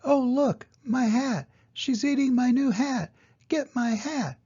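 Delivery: high, loud alarmed cry; a guest cries out at the horse eating her hat. Acted. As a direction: shriek it out as the hat vanishes. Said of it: "there was a loud cry".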